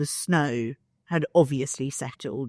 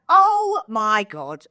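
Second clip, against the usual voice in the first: slow, drawn-out gasp of horror; slow horrified oh my God; shocked; 4 semitones higher, 5 dB louder, much slower than usual. Retold or imitated. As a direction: stretch it out in disbelief. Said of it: "I was like".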